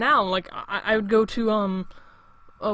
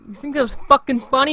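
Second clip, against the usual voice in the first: retold yell, louder, higher; 4 semitones higher, 5 dB louder, faster than usual. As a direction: blow up on the repeat, a retold yell. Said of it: "I had to yell at that kid".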